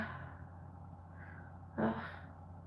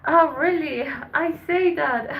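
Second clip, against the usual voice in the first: higher and louder, a laughing "oh really"; amused surprise; 6 semitones higher, 8 dB louder than usual. Real, not acted. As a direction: tease herself with a bright surprised laugh. Amused at her own promise.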